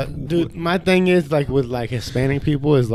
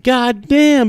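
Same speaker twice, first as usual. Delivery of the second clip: high, stunned exclamation; hammed-up shock, much higher; mock surprise; 8 semitones higher than usual. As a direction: react as if floored by the news. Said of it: "I'm like".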